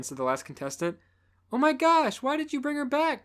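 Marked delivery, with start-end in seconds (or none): 1.5-3.2 loud high yell. Acted. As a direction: yell it in outrage. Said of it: "Courtney yelled".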